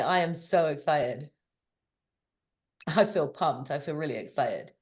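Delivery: relaxed, laid-back tone. Leaning back and sipping tea, the speaker demonstrates saying it: relaxed, chilled-out delivery. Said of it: "just kind of chill ... different tonality".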